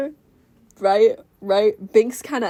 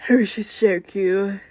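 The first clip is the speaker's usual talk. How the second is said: jaw-dropped awe. Acted. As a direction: swoon in mild mock awe. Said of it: "like, jaw dropped".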